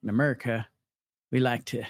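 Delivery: lightly voiced folksy president; halting, half-hearted presidential impression; George W. Bush. Host attempting a president's speech, light impression. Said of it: "I stopped at, at Bush".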